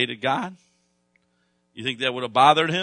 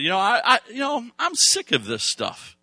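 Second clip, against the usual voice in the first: fed-up outburst; 11 semitones higher, 4 dB louder than usual. Retold or imitated. Preacher voicing a fed-up man at his Xbox, exasperated. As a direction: voice a man who has had enough.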